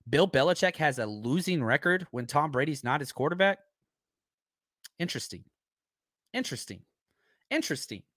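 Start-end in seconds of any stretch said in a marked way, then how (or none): 5.0-8.0 wry muttered interesting. Real, not acted. Wry reaction to Belichick stat.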